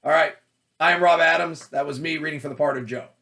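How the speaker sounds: bright, upbeat self-introduction; slate. Shown as a demonstration. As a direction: announce yourself to the casting room. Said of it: "you're like".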